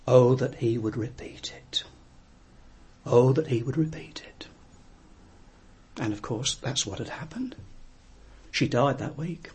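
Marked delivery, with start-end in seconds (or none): 0.1-4.5 soft whisper, no voice. Retold or imitated. Dying servant girl pleads in the pew, whispering. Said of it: "heard her keep whispering".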